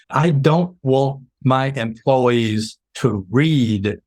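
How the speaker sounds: slow, deliberate, passionate insistence; worked-up, emphatic. Real, not acted. Consultant on telling employees first himself, worked up. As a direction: spell it out word by word, fervently. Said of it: "sorry, I get excited when I do this".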